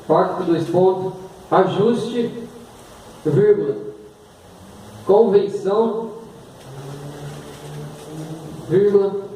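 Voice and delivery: slow itemized dictation; dictating. Shown as a demonstration. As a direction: dictate with punctuation. Dictating to class.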